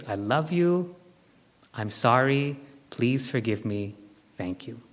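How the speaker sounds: gentle, sincere, fading to near silence on the last words; sincere apology prayer. Shown as a demonstration. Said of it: "just say".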